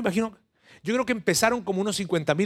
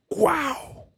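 amazed wow; 10 semitones higher than usual. Real, not acted. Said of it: "awe after the quote".

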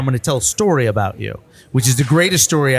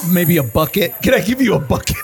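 teasing offer; 6 semitones higher than usual. Retold or imitated. Joking offer to Chuck.

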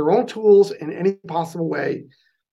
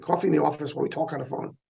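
quick New York accent, softer; fast-talking New Yorker accent; 2 semitones lower, 6 dB quieter, faster than usual. Shown as a demonstration. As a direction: rattle it off in New York vowels. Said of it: "There's my New York accent".

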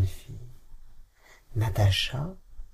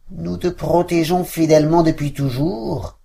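dogs answering; 5 semitones higher, 4 dB louder than usual. Acted. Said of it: "répondirent les chiens".

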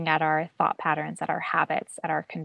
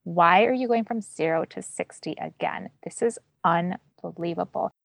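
harsh self-criticism. Retold or imitated. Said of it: "being like".

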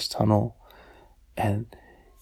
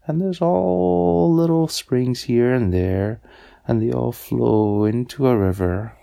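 lightly voiced frog, louder with stretched words; explaining frog; 6 dB louder than usual. Frog explains springs and rivers to Tiny, lightly acted, drawn out. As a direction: draw out the key words as you explain.

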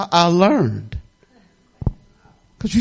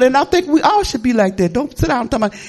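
normal talking voice

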